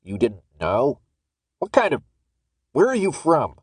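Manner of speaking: exasperated guard interrogating; incredulous anger. Acted. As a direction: cut yourself off and demand an answer.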